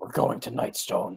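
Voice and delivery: intimidating, menacing tone. Blocking the caravan leader's path and glaring at him: intimidating, glaring. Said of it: "glare him in the eyes".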